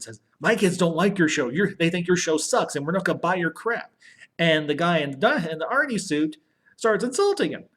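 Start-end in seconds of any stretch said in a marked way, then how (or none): 0.4-3.9 higher-pitched retold rant; mildly acted angry telling-off; mock indignant outburst; going off on someone. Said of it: "just kinda goes off on the guy".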